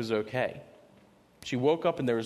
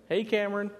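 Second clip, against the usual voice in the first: a bright, higher greeting called across the room; calling out; 10 semitones higher than usual. Retold or imitated. Dad greeting his daughter on the stairs, bright and higher. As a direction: call her name cheerfully.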